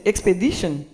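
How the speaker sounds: expedition said the English way, ending in -shun; English "expedition", not the French vowels; English pronunciation. Shown as a demonstration.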